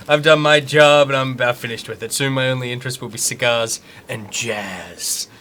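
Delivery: slow Southern drawl; kind of Southern accent. Acted. Cop giving up his job to reporters, Southern accent. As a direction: slip into an unhurried Southern drawl. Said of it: "slipped into, like, kind of Southern".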